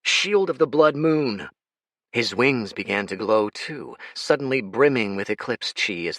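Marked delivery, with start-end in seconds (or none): 0.0-1.5 shouted incantation. Acted. Dorian casts his skill.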